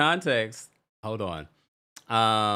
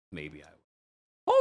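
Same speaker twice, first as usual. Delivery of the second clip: slow, low drawn-out maybe; coy tease; 8 semitones lower, 5 dB quieter, much slower than usual. Pretend. Host teasing chat again, low slow coy tease. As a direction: tease the viewers, stretch it out.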